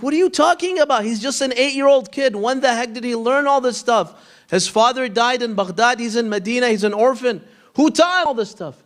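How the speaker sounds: can't believe what he's hearing; incredulous. Retold or imitated. Friend protesting to the teacher in disbelief, incredulous. Narrator voices his own disbelief.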